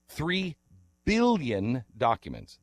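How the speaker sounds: Three said high, billion documents slow; stress on three. Real, not acted. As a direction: marvel at the sheer number, Three lifted high. Stressing the huge number.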